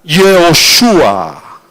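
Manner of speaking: "Yehoshua" very slow, vowels stretched; Hebrew pronunciation demo. Shown as a demonstration. Preacher showing the original Hebrew name, "Yehoshua" slowly sounded out. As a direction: stretch "Yehoshua" syllable by syllable, falling on the end. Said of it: "ese sí es el hebreo".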